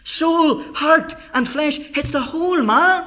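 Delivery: emphatic preaching, hammering out key words; impassioned preaching. Acted. Preacher explains soul, heart and flesh to congregation, emphatic preaching. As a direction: press each point home from the pulpit.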